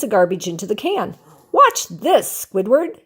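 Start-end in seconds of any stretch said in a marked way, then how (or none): 1.5-3.0 higher call across the room. Acted. SpongeBob calling to Squidward to watch, higher call. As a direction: call out to get his attention. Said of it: "he called".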